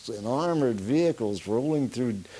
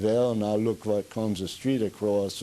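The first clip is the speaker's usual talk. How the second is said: put-on Dutchy accent. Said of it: "more of an accent then than I have now".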